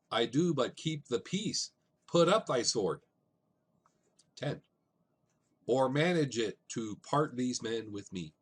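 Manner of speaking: "I do but keep the peace" with each second syllable stressed; iambic stress. Shown as a demonstration. Teacher demonstrates iambic beat of "Or manage it to part these men with me", slow and stressed. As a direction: tap out the da-DUM beat of "Put up thy sword". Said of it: "unstressed followed by stressed syllables".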